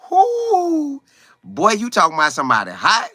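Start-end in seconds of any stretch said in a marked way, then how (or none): 0.1-1.0 high, excited whoop of delight; excited whoo. Real, not acted. Host hyped by his own story, whooping high and excited. Reacting to the Kiffin quote.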